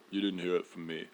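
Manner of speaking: soft conspiratorial aside; conspiratorial hush. Acted. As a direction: say it like a secret. Conspiratorial gossip.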